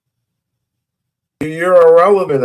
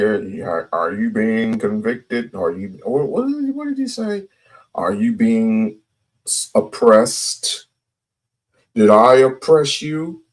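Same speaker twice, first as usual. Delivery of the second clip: imitating white people; 4 semitones lower than usual.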